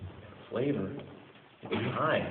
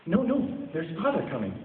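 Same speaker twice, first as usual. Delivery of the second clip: put-on high, loud children's cry; much higher, louder children; excited cry; 7 semitones higher, 4 dB louder than usual. A narrator's reading. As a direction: call out like eager kids. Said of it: "cried the two young Cratchits".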